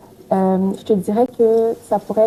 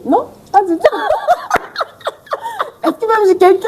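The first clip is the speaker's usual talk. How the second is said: high laughing reply, much higher and louder; 13 semitones higher, 4 dB louder than usual. Real, not acted. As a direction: laugh it off while answering. Laughing at marriage question.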